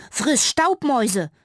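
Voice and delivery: loud, slow mock insult; a mouse shouting a taunt, slow and loud; cheeky shout. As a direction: fling the insult at the cat. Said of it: "rief Fitti".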